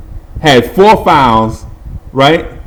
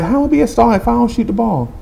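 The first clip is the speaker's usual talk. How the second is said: fast, higher disbelieving question; incredulous protest; 8 semitones higher, 4 dB quieter, much faster than usual. Retold or imitated. Boy protesting to his uncle, fast and higher. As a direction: rattle off the objection, higher.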